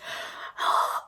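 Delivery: soft exasperated gasp. Real, not acted. Storyteller overwhelmed by the date, exasperated gasp. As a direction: suck in a breath. Exasperated breath amid complaint.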